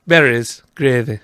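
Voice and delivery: loud broad Yorkshire "Berries, gravy" with flat vowels; Yorkshire accent. Retold or imitated. Yorkshire accent while joking with co-host about Ikea. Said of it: "That's what they say in Yorkshire".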